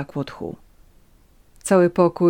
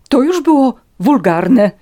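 raised, loud, outraged rebuke; furious; 8 semitones higher, 10 dB louder than usual. A narrator's reading. Countess takes offence at Natalia's jibe, furious. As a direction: spit it out in indignant fury. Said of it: "Stłumiony głos dobitnie świadczył o tym, jak bardzo była wściekła".

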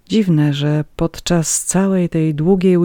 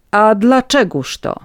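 higher, louder, drawn-out challenge; raised voice; 7 semitones higher, 6 dB louder, slower than usual. A narrator's reading. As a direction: raise your voice and demand an explanation. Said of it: "spytała podniesionym głosem".

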